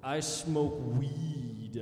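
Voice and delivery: slow, drawn-out pompous brag. Pretend. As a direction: savor each word smugly. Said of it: "Like I'm better than everyone".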